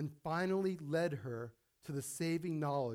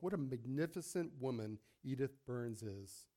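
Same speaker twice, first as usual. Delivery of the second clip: inner thought; 4 semitones lower, 8 dB quieter than usual. Acted. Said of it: "Doctor Phillips thought to himself".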